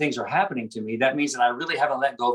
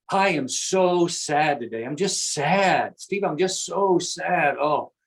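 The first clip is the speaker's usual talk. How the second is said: slow, drawn-out mild sad demo; demonstrated sadness; 3 semitones higher, slower than usual. Shown as a demonstration. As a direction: show how to voice sadness, dragging it out. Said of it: "just like that, that's how you do that".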